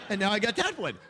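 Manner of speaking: words squeezed out through laughter, high and loud; barely holding it together; laughing. Real, not acted. Preacher cracking up telling the congregation the punchline. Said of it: "busting out laughing".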